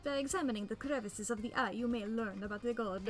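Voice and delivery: hammy exaggerated Italian accent; cartoonish Italian accent, grand and theatrical; over-the-top Italian accent. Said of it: "since I couldn't do an Italian accent".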